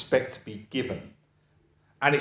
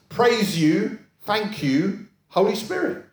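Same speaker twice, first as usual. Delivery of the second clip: imitating worshipper; 7 semitones higher, slower than usual. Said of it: "Natural response".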